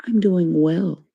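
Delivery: prim, correct "I'm doing well."; formal proper answer. Shown as a demonstration. Showing the formal thing to say, said prim and proper. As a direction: stress "well" like a polite office greeting. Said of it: "the formal thing to say is".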